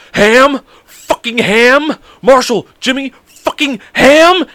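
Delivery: high, loud shouts, drawing out "ham"; retold furious yelling. Friend yelling at the pranksters over ham in his locker, shouting. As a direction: bellow like someone betrayed by lunch meat.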